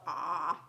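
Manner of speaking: low, drawn-out mock "aah"; pretend open-mouthed "ah". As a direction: open the mouth wide as if about to misbehave. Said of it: "about to do something unsafe".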